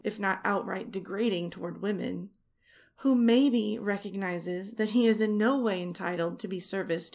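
emphatic bursts of teasing accusation; rolling, emphatic mock scolding; mock tirade. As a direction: punch the key words as in a playful rant.

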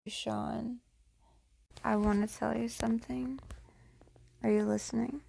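soft voiceless whisper; hushed, breathy, secretive whisper to a lover; intimate whisper. Real, not acted. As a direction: lean in and whisper it. Intimate whispered address to partner.

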